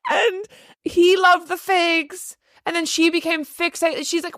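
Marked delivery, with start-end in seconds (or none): 0.1-2.4 laughing while talking. Real, not acted. Laughing at absurd story.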